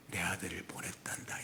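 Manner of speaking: whispered tender line; whispered as God to his child. Acted. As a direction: breathe it like a secret of love. Voicing God's message.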